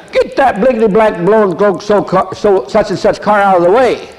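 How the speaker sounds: high, hammed-up cussing shout; mock the angry driver cursing; cursing stranger. Angry driver yelling at the preacher, mock furious. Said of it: "I'll let you fill in the blinks and blanks".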